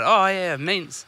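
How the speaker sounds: mimicking a mate's matter-of-fact punchline; lightly imitating how his mate said it; mate's deadpan delivery. Retelling his mate's joke, lightly imitating his delivery. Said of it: "That's the way he said it".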